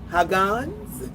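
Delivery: Haggans with a broad ah; trying a name. Shown as a demonstration. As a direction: Haggans as HAH-gahnz, falling. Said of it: "I hate pronouncing people's name wrong".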